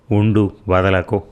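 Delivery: a mild, slow little cry; slow, pleading hold on; small cry. Acted. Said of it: "చిన్నగా అరిచింది".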